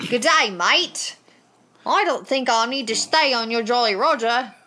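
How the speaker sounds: loud, high put-on accented heroine; hammed-up, exaggerated accent, pitch climbing at the end; Belle. Podcaster playing heroine opposite Captain Hook, hammed-up voice. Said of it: "I'll be Belle".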